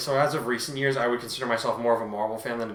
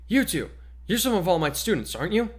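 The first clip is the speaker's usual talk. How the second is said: higher, eager reporter voice; pushy reporter; 6 semitones higher than usual. Acted. Female reporter pushing a mic at students, eager higher voice. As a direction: thrust a mic and pry. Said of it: "a female reporter came up to the two of them".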